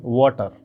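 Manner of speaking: वाटर with a rounded "wo" opening, like "woter"; correct pronunciation. Shown as a demonstration. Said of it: "याद रखिएगा".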